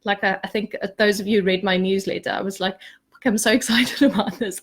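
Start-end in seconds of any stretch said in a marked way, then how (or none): 3.1-4.6 put-on laughing through the words like a giddy child. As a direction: let a laugh break into "so". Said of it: "I was a bit like a giddy child".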